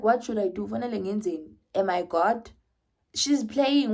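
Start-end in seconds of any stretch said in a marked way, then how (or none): 0.0-2.5 exasperated protest. Retold or imitated. Mother protesting to the nurse, exasperated and raised. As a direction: throw up your hands in exasperation. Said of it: "And I'm just like".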